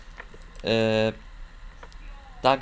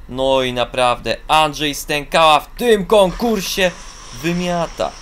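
proud commentator cheer; enthusiastic praise; 3 semitones higher, 6 dB louder than usual. Real, not acted. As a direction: hype the home jumper. Praising the Polish jumper.

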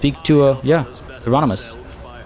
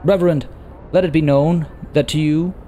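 earnest sister reporting; 6 semitones higher than usual. Acted. Voices the sister character.

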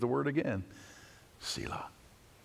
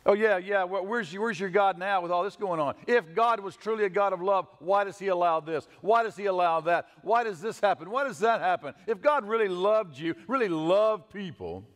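higher, taunting voice of the doubting world; mocking the world; 5 semitones higher than usual. Preacher mocking the world's taunt at believers, in a scornful voice. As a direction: sneer the question like a scoffer. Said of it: "That's exactly what the world says to us".

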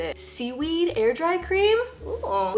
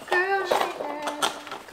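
laughing repeat; 4 semitones higher, much slower than usual. Real, not acted. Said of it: "So this is my girl straightener".

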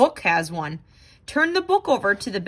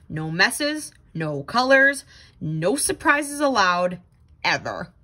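firm rule recital, dropping much lower on "ever"; strict rules; 4 semitones lower than usual. Acted. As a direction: lay down the law like a strict boss.

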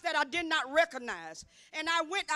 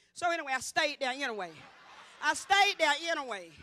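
laughing. Real, not acted. Laughing about staying anyway.

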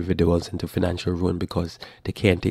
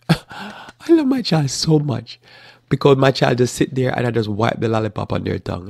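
a touch of a fond doting parent; mock doting parent; 4 semitones higher than usual. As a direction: gush like a parent who spoils. Mocking indulgent parent.

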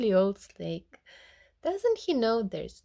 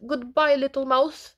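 high, loud farewell; alarmed, eager to get away; hurried alarm; 6 semitones higher, 5 dB louder than usual. A narrator's reading. Snake leaving the mouse and Gruffalo, alarmed.

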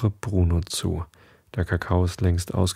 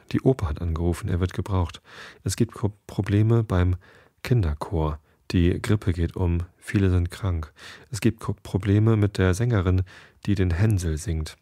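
usual speaking voice

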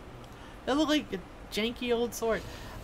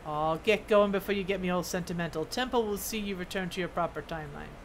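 lightly voiced dwarf, shooing off a friend; a hint of sentiment in a dwarf's send-off; gruffly fond dwarf smith; 3 semitones lower than usual.

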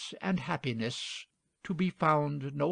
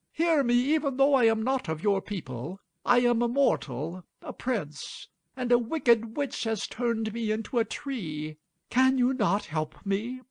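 high, urgent plea of a poor prince; calling aloud; 8 semitones higher, 4 dB louder than usual. A narrator's reading. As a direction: plead loudly for help in a raised voice. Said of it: "the enchanted prince called aloud to him".

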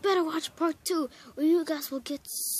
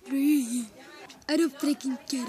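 "Three." said with a rolled Russian r, no th; Russian-accented "Three." with a trilled r; 2 semitones lower than usual. Pretend. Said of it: "I just did random Russian".

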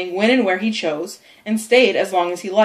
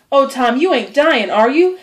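higher, louder alarmed question; frightened; 5 semitones higher, 4 dB louder than usual. Acted. Sid fearing his brother is dying, frightened. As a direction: plead for him not to be dying.

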